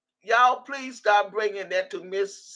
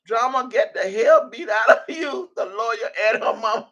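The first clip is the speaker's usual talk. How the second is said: laughing. Real, not acted. Rereading the drama comment to chat, laughing. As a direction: lose it to laughter halfway through.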